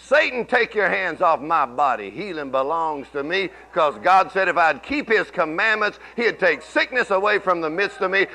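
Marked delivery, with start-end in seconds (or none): 0.0-3.5 declaring faith. Shown as a demonstration. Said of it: "you could say this".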